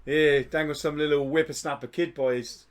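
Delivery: lightly hammed-up Aussie bloke; mock Australian accent. Bragging of a ripping day, mock Australian. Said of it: "your final transformation into an Australian".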